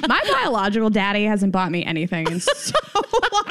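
breaking up into laughter on the last words; laughing. Real, not acted. Daughter joking about her stingy dad, laughing. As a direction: dissolve into laughter as the line ends.

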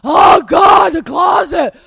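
loud, high, hammed-up moaning; mock wailing. Mimicking spouse faced with a closet, mock wail. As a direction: wail it like an overwhelmed drama queen. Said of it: "ten minutes of rocking through the house".

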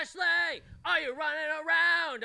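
loud, high call across the room. Real, not acted. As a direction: call her name from afar. Calling out to arriving friend.

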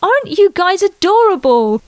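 high, doting coo; fond praise. Acted. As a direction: mom melting at her family. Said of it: "Chloe praised them".

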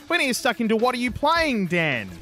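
upbeat announcer rundown; podcast intro read. Real, not acted. Host previewing segments for listeners, announcer style. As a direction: sell each segment like a show host.

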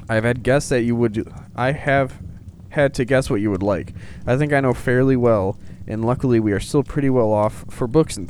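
lightly performed storybook reading; measured read-aloud voice; letter read aloud. Acted. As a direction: read Father Christmas's letter out clearly. Reads Father Christmas letter aloud.

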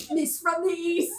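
slow put-on film accent, laughing; Dick Van Dyke impression. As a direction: ham up the movie quote in a bad accent. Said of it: "Dick Van Dyke is like".

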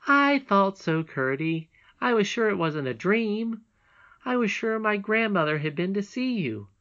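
high, eager princess calling out; excited child's call, loud at the start. A narrator's reading. Princess insisting to Curdie it was no dream, calling out. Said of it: "but Irene called out".

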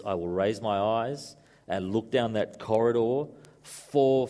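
slow, measured film-hero voice; runner's dramatic monologue. Acted. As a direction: weigh each phrase slowly, as if staring down the track. Acts the runner's famous film line.

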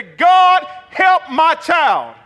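loud, high, drawn-out plea; slow, emphatic prayer shout; crying out to God. Acted. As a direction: cry out like a pleading parent. Voices desperate parent praying aloud.

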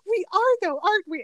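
high, earnest little appeal; imitating naive sincerity; sincere Martin Short. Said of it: "the sincerity in Martin Short's voice".

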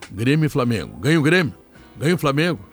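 booming poll call, rising excitement; loud hyped announcing. Pretend. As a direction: sell each option like a barker. Host hypes the listener poll.

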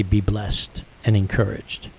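slow and soft, savoring each word; slow tender blessing; tender echo. Retold or imitated. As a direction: repeat it slowly, as if still moved. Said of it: "that touched me so much".

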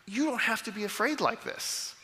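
caring reassurance; compassionate reassurance. Shown as a demonstration. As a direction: soothe a scared child. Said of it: "hear these with compassion".

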